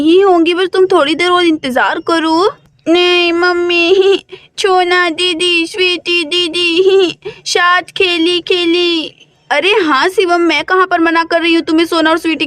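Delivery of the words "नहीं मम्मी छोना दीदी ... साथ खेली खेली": put-on slow, drawn-out childish whine; a little boy pleading to play with his sisters; whiny little boy. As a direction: drag the words out like a sulking toddler. Small boy whining for his sisters.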